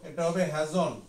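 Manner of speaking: হ্যাজন্ট said as one clipped word; teacher modeling হ্যাজন্ট; hasn't contraction. Shown as a demonstration. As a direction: say হ্যাজন্ট with no gap before the t. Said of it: "উচ্চারণটা হবে".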